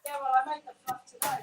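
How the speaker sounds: distant, as if away from the mic; speaking from across the room; far away. Real, not acted. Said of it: "You sound so far away".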